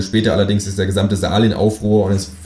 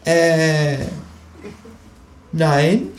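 high, hesitant kangaroo denial; guilty Kangaroo; 8 semitones higher than usual. Acted. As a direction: fib sheepishly. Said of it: "sagt das Känguru".

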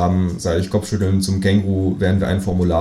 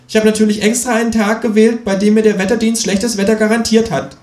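higher, smug know-it-all kangaroo voice; cheeky kangaroo; 13 semitones higher, 4 dB louder than usual. Acted. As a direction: play the kangaroo pleased with its own cleverness. Känguru defends bad weather. (frecher Känguru-Ton, höher und selbstgefällig)

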